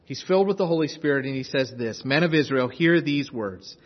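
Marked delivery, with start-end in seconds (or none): 2.0-3.8 bold, firm address to a crowd; measured, emphatic public proclamation; bold preaching. Acted. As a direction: proclaim it with conviction. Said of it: "standing boldly before a crowd".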